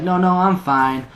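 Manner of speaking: mock-drunk loud reassurance; imitated drunk insistence. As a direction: insist tipsily, drawing it out. Drunk friend waves off the manager.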